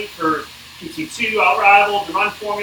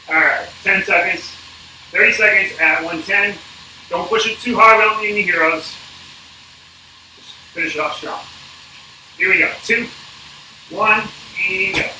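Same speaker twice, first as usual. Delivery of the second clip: coach countdown shouting; 4 semitones higher than usual. Real, not acted. Coach calling interval countdown on bike.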